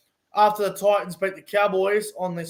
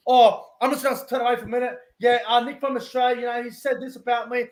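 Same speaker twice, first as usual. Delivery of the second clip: higher, quicker mock voice of the guy turning away; mocking imitation; 4 semitones higher than usual. Mocking the vlogger who won't look at the camera, in a higher, quicker voice. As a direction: mimic him dodging the camera, a touch whiny. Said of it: "Don't be like this".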